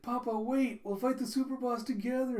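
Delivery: put-on high-pitched little-kid voice; child calling papa. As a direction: pipe up like a small child. Sleeping child's words, voiced.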